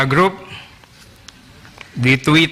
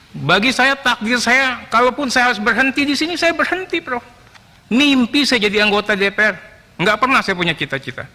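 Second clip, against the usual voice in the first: impassioned, high-pitched defiant declaration; heated vow to accept any consequence; real defiance; 7 semitones higher than usual. Real, not acted. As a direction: stand your ground, voice pitched high with emotion. Defies professor, ready to lose his post.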